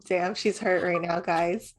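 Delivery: ordinary delivery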